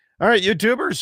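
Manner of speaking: voice cracking. Turning to address the youtubers after a goodbye, voice cracking. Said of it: "my voice is cracking like I'm going through puberty".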